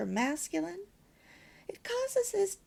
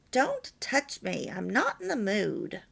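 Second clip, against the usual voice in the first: cold rejection; 4 dB louder than usual. Shown as a demonstration. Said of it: "You can see the difference".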